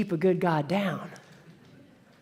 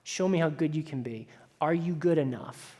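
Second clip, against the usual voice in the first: taunting Baal; 4 semitones lower, 6 dB quieter than usual. Acted. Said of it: "Baal says".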